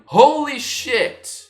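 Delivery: high, loud, slow scream of shock; fangirl scream. Retold or imitated. The speaker spotting Kylie, loud and slow fangirl scream. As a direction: scream it like a starstruck fan. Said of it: "I instantly scream".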